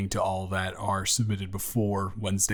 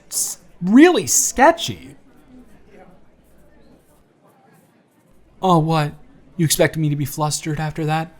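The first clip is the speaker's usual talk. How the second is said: put-on friendly, teasing young man on a first date, livelier and louder than the intro; charming blind date; 7 semitones higher, 9 dB louder than usual.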